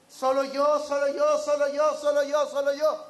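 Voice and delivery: put-on loud, childish repeated whine of solo yo; whiny yell. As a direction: whine it like a spoiled kid. (queja infantil y gritona de "solo yo")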